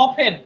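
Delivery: অফেন as "o-fen", no "t"; silent T. Shown as a demonstration. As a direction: say অফেন slowly without any "t". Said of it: "এখানে টির উচ্চারণটা নাই".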